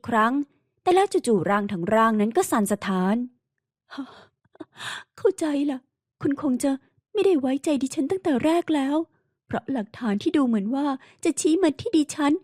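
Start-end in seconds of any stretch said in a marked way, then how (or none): 5.2-12.3 lightly raised, wounded woman's voice; a hint of an anguished heroine; hurt young woman. Heroine despairs. (น้ำเสียงหญิงสาวเจ็บปวดแบบเบาๆ)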